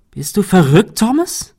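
lauter, zum Namen hin viel höher; verzweifelt, mit unterdrückter Wut; verzweifelt und wütend. A narrator's reading. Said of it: "Shirley klang verzweifelt und latent wütend". (verzweifelt, latent wütend)

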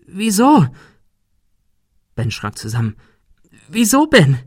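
high, loud eerie voice; ghostly accusing girl. A narrator's reading. Ghostly Sarah confronts Ben. (hohe, laute Geisterstimme)

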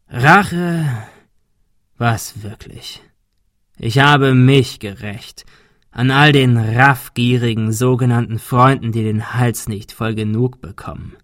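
scornful hoarse villain, slow and mocking; lightly voiced hoarse villain, mocking. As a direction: sneer it out like a bitter old man.

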